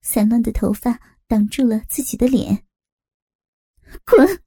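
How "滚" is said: sharp angry bark of a single word; low harsh rebuke. A narrator's reading. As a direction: spit it out as a furious rebuke. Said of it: "文杰一声低沉的呵斥".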